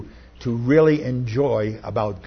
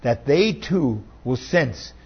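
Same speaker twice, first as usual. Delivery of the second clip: prayer. Real, not acted. Leads congregation in prayer.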